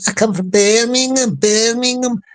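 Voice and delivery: lightly put-on Brummie accent; Birmingham accent. Shown as a demonstration. Explaining who comes from the city, in a Birmingham accent. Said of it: "accents I can do".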